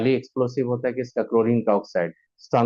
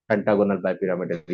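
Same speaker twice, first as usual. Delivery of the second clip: slow for memorising; 4 semitones lower, much slower than usual. Shown as a demonstration. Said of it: "याद करो".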